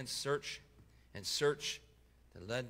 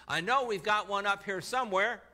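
loud, higher call from upstairs; 7 semitones higher, 7 dB louder than usual. Retold or imitated. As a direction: shout it down eagerly. Husband calling down from attic.

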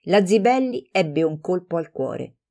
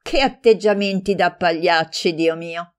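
scornful exclamation. Acted. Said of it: "esclamò".

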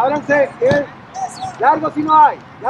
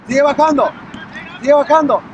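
shouting; 2 semitones higher, 3 dB louder than usual. Real, not acted. Coach yelling from the sideline.

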